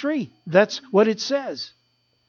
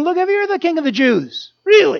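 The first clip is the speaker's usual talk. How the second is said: high, sneering taunt; mocking crowd; 8 semitones higher than usual. Preacher voicing the crowd mocking Jesus, high sneer. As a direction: jeer at him from the road. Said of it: "they begin to say to them".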